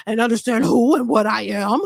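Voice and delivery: husky voice of a woman who's smoked for years; Vivica impression. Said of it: "talking like she got cigarettes in her throat".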